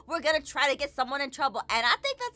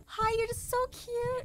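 fawning; 6 semitones higher, 5 dB quieter than usual. Pretend. Fawning at the crush.

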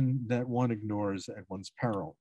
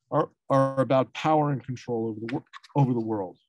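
speaking through hiccups; words broken by hiccups; faster than usual. Real, not acted. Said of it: "Excuse me, I get the hiccups".

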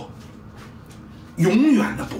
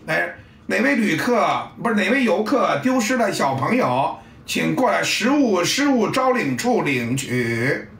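lightly done PA announcer; mock announcement. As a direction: parody a lost-and-found announcer. Mimicking lost-and-found announcement.

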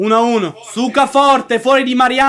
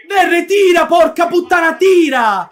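excited yelling; 2 semitones higher than usual. Real, not acted. Urging a shot.

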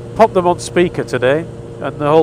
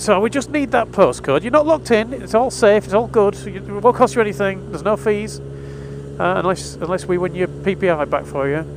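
caller voice; 6 semitones higher than usual. Retold or imitated. Stan, the cold caller, voiced.

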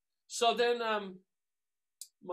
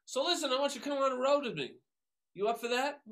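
imitating Chick; 8 semitones higher, 4 dB louder than usual. Chick's offer, voiced higher.

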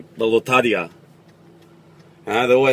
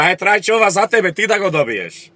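a higher, hammy joke delivery; lightly voiced prize host; 7 semitones higher than usual. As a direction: pitch the stock joke up at the bald guy. Acting the prize host's stock joke.

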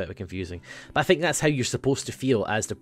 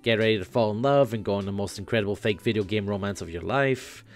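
Dave Sprite voice. Acted. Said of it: "let's do Dave Sprite".

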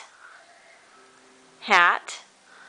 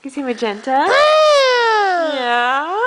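laughing question; 5 semitones higher, 4 dB louder than usual. Real, not acted. Mother laughing at toddler.

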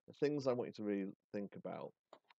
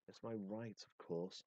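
softer hissed reply, "my" stressed; 6 dB quieter, slower than usual. Acted. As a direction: hiss "It's my right" under the breath. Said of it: "Ollie hisses".

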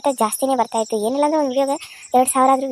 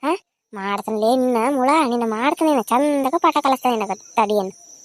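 threatening scold. Acted. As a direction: drag out the threats, mean and sure. Mother-in-law threatens the girl. (ಹುಡುಗಿಗೆ ಬೆದರಿಸುವ ಅತ್ತೆ, ನಿಧಾನ ಕಟು ಮಾತು)

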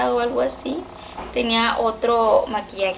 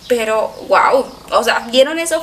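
real surprise; 8 dB louder than usual. Real, not acted. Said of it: "Me sorprendió".

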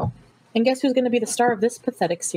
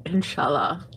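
breathy seductive whisper, low; sexy whisper; 5 semitones lower, slower than usual. Retold or imitated. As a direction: whisper it like a sweet nothing. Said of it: "in a sexy voice".

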